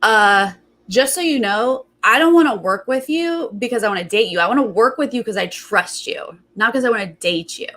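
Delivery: lightly mimicked smug confrontation; knowing, accusatory attitude. Recapper imitating him confronting his housemate, knowing and accusatory. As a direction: retell it as if you caught them out. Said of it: "he goes just like this".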